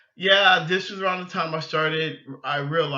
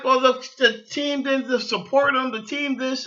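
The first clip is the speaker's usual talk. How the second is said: arguing back; 9 semitones higher, 4 dB louder than usual. Retold or imitated. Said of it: "And I'm like".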